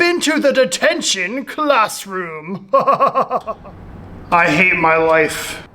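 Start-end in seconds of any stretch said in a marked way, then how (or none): 2.7-5.7 miserable. Acted. Stuck in detention.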